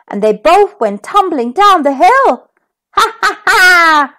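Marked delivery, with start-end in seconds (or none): 2.9-4.1 slow mock laugh. A narrator's reading. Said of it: "laughed bad old Humpty Dumpty".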